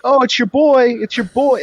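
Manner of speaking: high, loud mock greeting; imitated vendor. Vendor answering his phone order, high imitated excitement. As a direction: parrot her in a high hyped-up voice. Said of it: "And she would be like".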